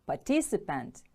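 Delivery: "Participant" with the stress on TIC; second-syllable stress. Shown as a demonstration. Teacher models the word for pupils, "Participant" stressed on TIC. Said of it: "Stress is on the second syllable".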